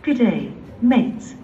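put-on a light Aussie accent on request; cheerful hint of Australian accent. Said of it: "Can you speak in an Australian accent?".

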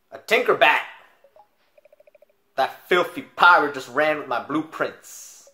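loud, high outraged exclamation, drawn out; put-on Uncle voice. Uncle robbed of blueprints by pirate, loud outraged voice. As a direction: cry out as the robbed inventor. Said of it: "I'll give him a different accent, a different voice".

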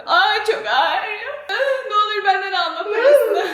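real pained giggling; laughing through pain. Real, not acted. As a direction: laugh and whimper at once. Hurt after fall, laughing.

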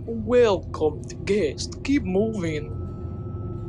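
slow, dragged-out guard's warning; a hint of a stern guard; gruff guard voice. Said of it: "That's pretty good".

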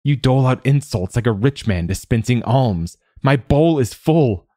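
high-pitched, building to a loud finish; choked with mirth. A narrator's reading. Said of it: "Quoth choked".

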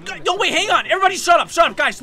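high, insistent shushing and calling; urgent hushing. Real, not acted. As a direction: shush the group and demand attention.

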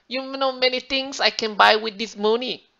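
mock Asian mom counting what the money buys; Asian mom accent. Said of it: "the Asian accents that Andrew and I do".

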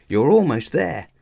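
high, loud encouragement; excited cheer from the bank; cheering call. A narrator's reading. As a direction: urge the racer to the line. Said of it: "Lana called".

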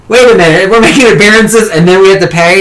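high, indignant mock outrage; outraged protest. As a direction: squeal it like you just got scammed. Girls protest surprise fee.

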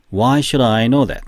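slow drill. Shown as a demonstration. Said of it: "세 번 시작".

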